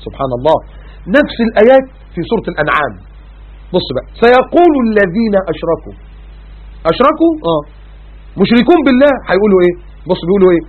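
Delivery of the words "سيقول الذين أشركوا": slow, drawn-out melodic recitation; Quranic recitation. Acted. Preacher reciting the verse to the congregation, slow melodic chant. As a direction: chant the verse slowly, stretching each word.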